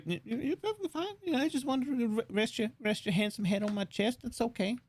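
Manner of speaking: high, soft cooing; mock coddling. Host inviting cohost to rest on his chest, mock-tender coddling. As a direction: coax them close in a playfully tender voice.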